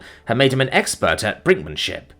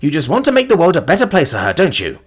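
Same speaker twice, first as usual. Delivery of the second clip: scornful mockery; 5 semitones higher, 3 dB louder than usual. The speaker's mocking rant.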